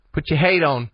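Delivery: the word hate for hat, with a long A vowel. Shown as a demonstration. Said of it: "the letter A, like, as in hat".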